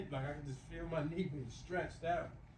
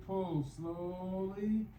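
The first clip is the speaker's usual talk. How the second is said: drawn-out "slowly"; slow exercise cue; 3 semitones higher, much slower than usual. Real, not acted. Exerciser cues the next slow pull, drawn out. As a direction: stretch the words with the pull.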